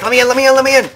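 high, loud begging, hammed-up; pushy villager. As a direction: play a villager yelling to be let in. Voicing villagers banging at door.

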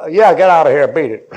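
loud, gruff dismissal, dropping at the end; brusque brush-off. Acted. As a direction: wave off a pest loudly. Acting a man rebuffing a witness.

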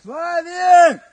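loud high call across distance; calling from far away. Real, not acted. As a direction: yell a name to someone far off. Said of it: "Теперь кричи".

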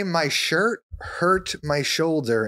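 put-on slow babyish whine. Shown as a demonstration. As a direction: say it like a pouty toddler. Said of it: "in a baby voice".

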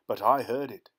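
whisper. Acted. Man confiding his strange discovery.

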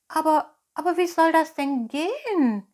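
high, loud, wondering little puppet; astonished. Acted. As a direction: ask in wide-eyed wonder, pitch soaring at the end. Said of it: "fragte Pinocchio verwundert".

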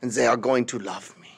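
high, shouted mock German rant; mock ranting Hitler. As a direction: bark it like a raving dictator. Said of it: "Hitler's like".

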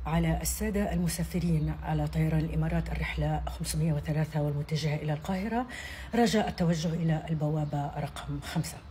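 calm, measured gate call over the speakers; airport announcement. Shown as a demonstration. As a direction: read it like a routine boarding call. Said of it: "أول حاجة هنبتدي بيها النداء اللي بيبقى جوه المطار".

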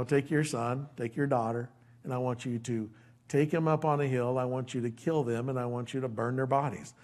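low, hushed, acted command to a parent; grave divine command. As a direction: give the terrible order quietly and low. Voicing God's grave command to parent.

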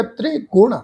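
ਤ੍ਰਿਗੁਣ as "tre-gun", light short e; touch the "tre" of ਤ੍ਰਿਗੁਣ gently; soft pronunciation. Shown as a demonstration. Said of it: "ਪੋਲਾ ਜਿਹਾ". (ਤ੍ਰਿਗੁਣ ਪੋਲਾ ਜਿਹਾ ਬੋਲੋ)

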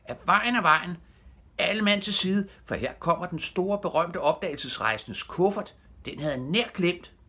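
high, loud crowd-clearing call; heralding yell in a high voice; shouting. A narrator's reading. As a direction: shout everyone out of the way. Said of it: "og den råbte".

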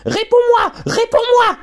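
put-on furious girl screaming at her father; shrieking demand. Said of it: "hurla Harriet".

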